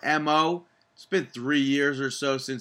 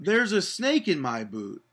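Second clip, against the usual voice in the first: higher correcting Woody line; Woody impression; 5 semitones higher than usual. Host correcting the co-host's Woody, a bit higher. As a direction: show him how Woody really says it. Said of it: "He doesn't even talk like that".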